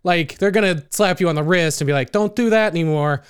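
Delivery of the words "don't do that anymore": put-on Brooklyn accent. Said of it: "sounded like I was from Brooklyn".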